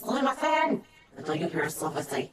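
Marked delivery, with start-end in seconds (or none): 0.0-0.8 "Sumimasen" called out high and loud across the store; a clerk being hailed with "Sumimasen!"; calling out sumimasen. Retold or imitated. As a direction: shout "Sumimasen!" up the aisle to get attention. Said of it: "someone says".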